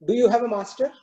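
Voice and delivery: lightly voiced cow asking a question; thoughtful cow. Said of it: "asks the lion".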